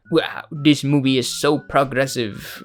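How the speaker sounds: put-on a light, lazy French accent on "Wow, this movie is so progressive."; mock French accent. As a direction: play a snooty Hollywood snob with a barely-there French accent. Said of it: "That's my French accent".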